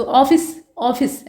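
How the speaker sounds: ऑफिस said 'aw-fis', rounded first vowel; ऑफिस with open ऑ. Shown as a demonstration. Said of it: "ऐसे बोलते हैं". (ऑफिस में 'ऑ' गोल करके बोलें)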